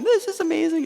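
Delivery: lightly voiced delighted gran; gushing gran. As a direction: gush like a thrilled gran. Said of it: "she's gushing on the phone".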